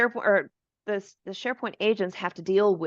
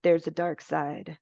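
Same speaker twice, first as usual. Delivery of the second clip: ominous; 2 semitones lower, slower than usual. Retold or imitated. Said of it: "as he puts it".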